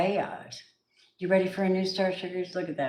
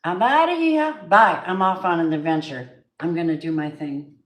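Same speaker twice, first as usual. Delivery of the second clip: excited quote; 4 dB louder than usual. Retold or imitated.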